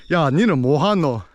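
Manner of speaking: fast, punchy Gyeongsang Busan dialect. Shown as a demonstration. Showing the Busan dialect from gangster films, fast Busan accent. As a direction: rattle it off like a Busan local. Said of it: "Busan Saturi, which all the gangsters talk".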